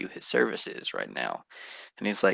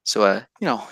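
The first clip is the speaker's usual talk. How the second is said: scheming merchant; 4 semitones higher than usual. Acted. GM voicing Otis the merchant.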